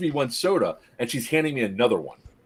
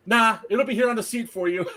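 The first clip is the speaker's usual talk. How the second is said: laughing quote; 8 semitones higher than usual. Retold or imitated. Guy refuses to pass the bag.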